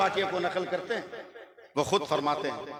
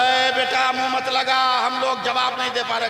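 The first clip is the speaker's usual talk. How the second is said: put-on raised, pleading old villager; elder's plea; 8 semitones higher, 8 dB louder than usual. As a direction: urge the boy to back off. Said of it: "बोला".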